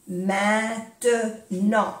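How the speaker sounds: "Maintenant" slowly, ending on a vowel with no T; silent final T. Shown as a demonstration. Teacher showing the silent T, "Maintenant" in slow syllables. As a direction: split "Maintenant" slowly, leaving off the last T. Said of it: "No se pronuncia la T".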